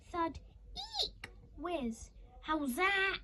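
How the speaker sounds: cricket appeal. Acted. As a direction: call it out like a bowler.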